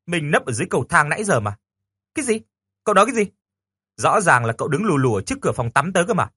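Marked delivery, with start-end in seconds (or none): 2.2-3.3 shocked indignation; incredulous outburst. Acted. Girl reacts to the boy's claim in indignant disbelief.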